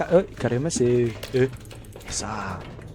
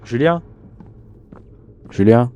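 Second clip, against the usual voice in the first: calling out; 5 dB louder than usual. Real, not acted. Calling a friend loudly.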